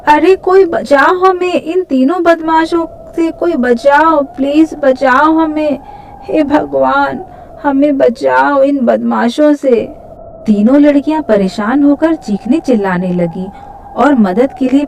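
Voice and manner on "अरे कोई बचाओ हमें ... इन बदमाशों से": high-pitched pleading cries; crying out for help. Acted. Three girls beg for rescue from thugs, high cries for help. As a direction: plead high and urgently to be saved. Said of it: "मदद मांगने के लिए चिल्लाने लगी".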